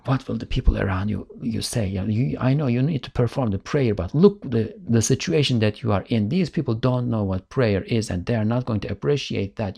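a mildly voiced, reasoning inner temptation; persuasive tempter. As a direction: talk him out of the prayer, gently.

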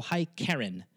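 a quiet everyday hello; casual real-life greeting. Retold or imitated. Host recalling calling a guest privately, casual and soft. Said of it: "I go".

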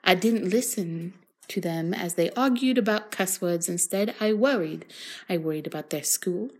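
badly faked Australian accent. Reading a vampire novel to a friend for laughs, bad Australian accent. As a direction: read it in a hammed-up, shaky-grasp Australian accent. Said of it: "I'm going with Australia".

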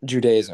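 Judaism said with the A sounded, "joo-day-izm"; pronunciation check. Shown as a demonstration. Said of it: "'cause the A is before".

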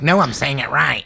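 lightly put-on sister voice; mock impression of a sister; Brittany. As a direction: imitate your sister protesting. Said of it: "that's her real voice".

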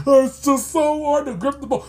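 lightly mocking whine; a hint of a petulant child, imitated; mock tearful baby. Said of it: "a baby on the verge of tears".

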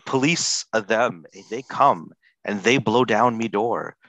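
slow, grave reading of rap lyrics; solemn dramatic reading. Shown as a demonstration. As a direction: read it like great literature. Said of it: "A reading from Snow".

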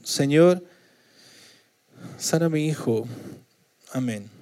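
soft, small, almost mumbled prayer; a polite little prayer that asks for nothing urgent; meek simple prayer. Shown as a demonstration. Pastor shows a weak prayer to God, softly. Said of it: "No creo que sea así".

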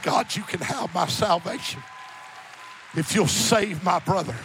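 firm, projected quotation of a prayer; emphatic pulpit retelling, full-voiced; preached prayer. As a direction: declare the plea to the congregation. Same prayer repeated in preaching voice.

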